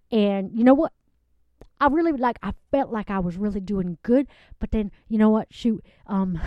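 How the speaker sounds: a sweet country woman gushing about her date; a lovelorn Southern guest giggling through her story; Southern lady Loretta. Acted. Character guest Loretta on a show.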